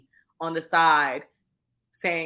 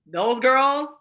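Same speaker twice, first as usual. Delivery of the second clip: high, loud exclamation, acted out; performing a housewife; 9 semitones higher, 8 dB louder than usual. Acting out housewives' lines.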